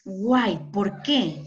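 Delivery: ordinary talk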